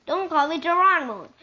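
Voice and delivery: high, loud indignant shout; angry retort. Acted. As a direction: snap it at your cousin. Angry name quarrel.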